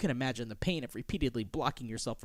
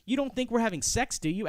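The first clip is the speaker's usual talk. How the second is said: indignant; 6 semitones higher than usual. Acted. Acts the woman's indignant reply.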